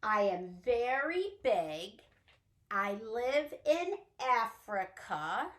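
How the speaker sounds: riddle voice. Acted. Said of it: "Are you ready for the next one".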